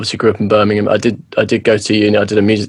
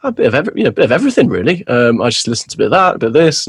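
imitating everyone's answer; 3 semitones higher, much faster than usual. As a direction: mimic people giving a vague, noncommittal reply. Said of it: "Everyone goes".

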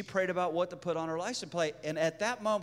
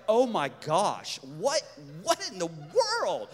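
mock freak-out. Couple looking at each other in bafflement, mock freak-out. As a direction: drag out the words in bewilderment. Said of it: "I'm freaking out".

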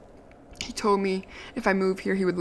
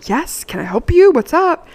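startled; 7 semitones higher, 8 dB louder than usual. Retold or imitated. Turning to the driver, startled.

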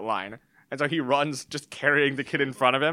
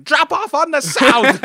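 high, drawn-out imitation yell; shouting; 13 dB louder, much slower than usual. Other drivers shouting at the lost dad, loud yell. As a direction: yell it slowly from a passing car. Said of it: "other cars go by shouting him".

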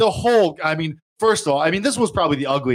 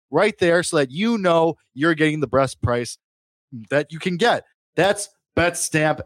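sponsor ad read. Acted. Host reads sponsor ad.

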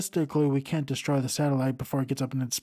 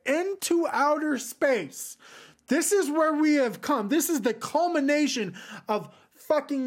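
mock awe; 9 semitones higher than usual. Real, not acted. Mock awe at absurd plot.

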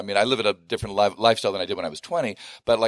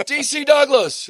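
high, loud and slow; imitated fan exclamation; 7 dB louder, slower than usual. Fan recognizes actor in airport, imitated excited cry. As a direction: stretch the name out as an amazed fan.

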